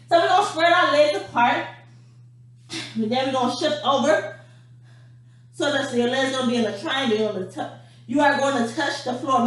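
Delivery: breathless, panting between words; winded from the jumping jacks; out of breath. Real, not acted. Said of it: "I'm out of breath already".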